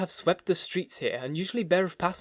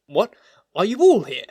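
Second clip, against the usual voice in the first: raised, louder peevish question; 6 semitones higher, 9 dB louder than usual. A narrator's reading. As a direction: snap it out like an irritated lawyer. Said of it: "said the lawyer peevishly".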